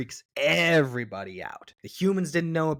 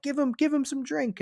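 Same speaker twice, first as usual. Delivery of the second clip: put-on rowdy drunk guard. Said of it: "they're like".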